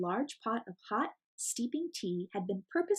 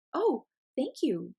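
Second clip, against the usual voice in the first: confused; 4 semitones higher, 4 dB louder, slower than usual. Acted. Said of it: "feeling a bit confused".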